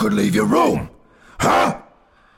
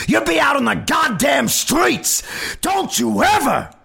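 loud, higher, raging father; furious shouting; 9 dB louder than usual. A narrator's reading. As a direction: scream it down at her. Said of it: "His father's shouting grew ever louder".

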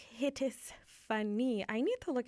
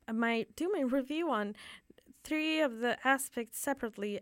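unvoiced whispered aside; 3 semitones higher than usual. Real, not acted. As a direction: whisper it to yourself. Aside to self.

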